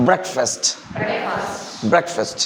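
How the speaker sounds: "Breakfast" run together as one short word; connected syllables. Shown as a demonstration. Teacher drills the class, Breakfast connected. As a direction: join Break tightly to fast. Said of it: "വാക്കുകൾ ചേർത്ത് പറയാ".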